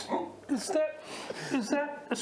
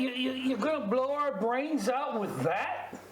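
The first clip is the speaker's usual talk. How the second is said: put-on Australian accent for improv; Aussie accent. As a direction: talk like an Aussie bloke. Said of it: "Keep the accent if you like".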